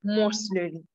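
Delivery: slow, spaced-out lecturing; slow down for the listeners, pausing between phrases. Real, not acted. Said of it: "try to speak more slowly".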